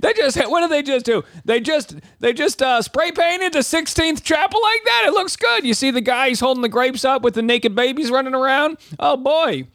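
high-pitched dumb American tourist in a hammed-up Southern accent; Southern accent of a clueless tourist group; mock Southern accent. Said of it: "they do be making that accent".

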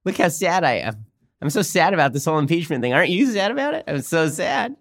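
mock Pelosi sadness. Host imitating Pelosi pretending to be sad about impeachment, sarcastic mock whine. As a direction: ham up a fake-sad politician hiding a smile. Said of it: "She's like".

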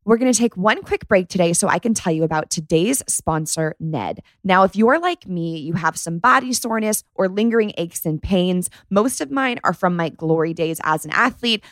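scripted, lively sponsor read; host's practised promotional voice; podcast ad read. Real, not acted. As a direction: read the sponsor spot with upbeat, even delivery. Host reads a sponsor spot.

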